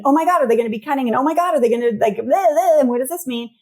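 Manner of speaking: fast, high anxious rush; mock panicked parent. Anxious parent fretting about teen, fast panicked rush.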